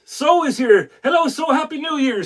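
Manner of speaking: high-pitched happy hello; excited greeting. Real, not acted. Host wishes arriving viewer happy new year, excited greeting.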